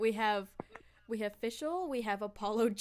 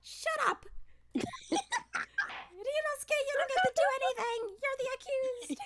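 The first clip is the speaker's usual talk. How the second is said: angry yell; faster than usual. Acted. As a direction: snap at the accused. Yelling at Ryunosuke.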